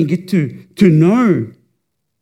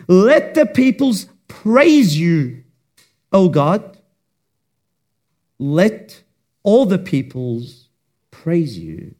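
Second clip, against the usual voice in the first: scripture reading; slower than usual. Real, not acted. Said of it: "let's read together verse three".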